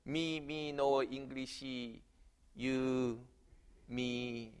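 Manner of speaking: a Korean grandmother asks her neighbor for help; broken English. Retold or imitated. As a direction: piece the words together shyly.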